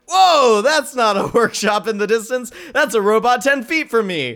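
sudden loud high whoa, then quick excited words; retelling Betty's startled discovery, loud and high; startled realization. Retold or imitated. Retelling a movie scene to cohost, a startled loud whoa.

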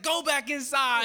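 high, loud laughing order; mock dismissal. Friend sending the guy back into the house, laughing order. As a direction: shoo him back in. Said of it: "You're just like".

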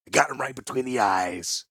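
a touch of pride in a character voice; proud. A narrator's reading. Crossbow master reporting his kill to his commander, mildly proud. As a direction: let the soldier boast a little. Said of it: "Zirik spoke proudly in the murk".

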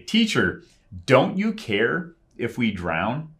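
high pleading whine; whining disciples. Retold or imitated. Disciples whining to Jesus in the storm, pleading. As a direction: whine it at the teacher like frightened fishermen. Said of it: "They're almost, uh, whining".

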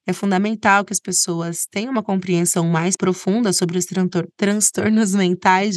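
slushy sh for s, tongue-tied; stumbling lisp on the s sounds. Real, not acted. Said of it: "tô com a língua presa hoje".

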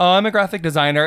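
dull, bored self-introduction. Shown as a demonstration. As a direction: say it like a person who hates their job. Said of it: "I say it really boring".

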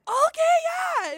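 very high, loud, drawn-out okay; eager yes. Retold or imitated. Agreeing to let the men teach her drums, high drawn-out squeal.

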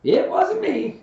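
very high, loud squeal of denial; insistent Piglet. A narrator's reading. Small piglet blamed by the bear, insisting shrilly. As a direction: insist in a tiny piercing voice. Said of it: "Piglet insisted".

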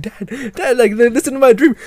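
high-pitched pleading for attention; eager child. Retold or imitated. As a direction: imitate a kid waking his dad. Child waking dad to share dream.

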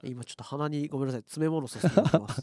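blocked nose, stuffed-up voice; nasal voice. Real, not acted. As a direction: talk through a plugged nose. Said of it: "鼻声になっちゃうね".

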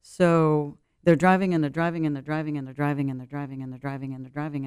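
driving on and on, dying into a murmur; fading repetition. Shown as a demonstration. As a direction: let the repeated and they're driving fade away. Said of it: "repeated phrase fading away".

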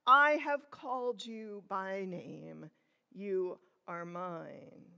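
slow, solemn voice of God; lightly voiced solemn divine call; otherworldly voice. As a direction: speak it slowly as God calling. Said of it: "In an otherworldly voice".

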